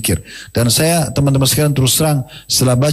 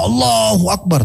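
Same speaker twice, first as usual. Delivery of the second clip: mock shout; 6 semitones higher, slower than usual. Companion cries takbir as his horse climbs, mock shout. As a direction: imitate calling out with a long first word. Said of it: "teriak dengan suara keras".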